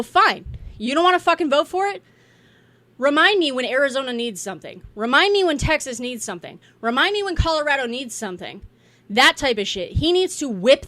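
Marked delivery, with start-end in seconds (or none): 0.0-8.6 tough speaker. Pretend. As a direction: call their bluff like a boss. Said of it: "Mike needs to go".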